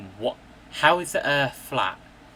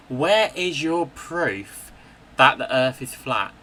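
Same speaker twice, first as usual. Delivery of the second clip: angry demand; 4 dB louder than usual. Real, not acted. Ranting at flat earthers, angrily demanding their proof. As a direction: hammer each word, louder than before.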